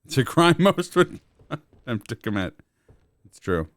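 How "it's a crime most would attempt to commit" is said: dramatic announcer. Pretend. Mock dramatic line.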